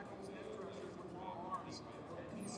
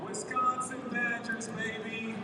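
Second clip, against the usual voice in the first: proud shout; 4 semitones higher, 11 dB louder, slower than usual. Real, not acted. Shouting school pride at draft.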